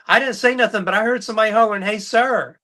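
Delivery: high, puzzled woman's voice; confused lady. Retold or imitated. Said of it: "And she's like".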